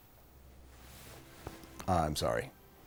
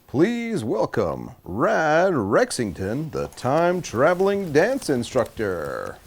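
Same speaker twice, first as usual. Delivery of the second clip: upbeat host introducing the contestant; game show host. Acted. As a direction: sell the name like a TV host.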